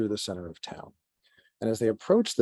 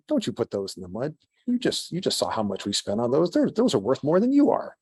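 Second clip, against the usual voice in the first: lightly voiced merchant scolding, rising to a high, loud peak at the end; a hint of a snooty merchant telling off his servants; mock indignant merchant; 4 semitones higher, 4 dB louder than usual. Merchant scolding servants about packages, mild mock anger. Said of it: "He said".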